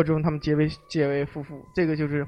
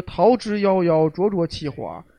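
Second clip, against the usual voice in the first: poem recital; slower than usual. Acted. Host recites a Book of Songs verse, slow and fading. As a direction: recite the ancient verse slowly.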